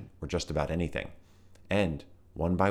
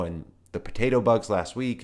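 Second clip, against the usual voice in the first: nervous rambling; 5 semitones higher, 6 dB louder than usual. A narrator's reading.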